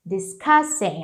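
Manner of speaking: Discussing with weight on the CUSS syllable; stress on CUSS. Shown as a demonstration. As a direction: punch the middle syllable of Discussing. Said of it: "Aqui é no K". (Discussing com força no K)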